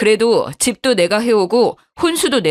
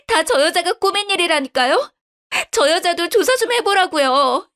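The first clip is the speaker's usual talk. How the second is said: much higher, frantic refusal; cling on, hysterical; wife refusing to leave, voice rising; desperate shrill wife; 9 semitones higher than usual. Acted. Wife screams refusing divorce.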